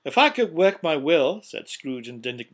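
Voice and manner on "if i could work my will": loud, exasperated tirade; indignant rant. A narrator's reading. Scrooge rails at his nephew about Christmas, indignant. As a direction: build a case in loud indignation.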